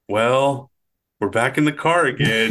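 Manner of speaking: a lightly voiced exasperated boy; Tim quote. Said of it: "Tim's voice go".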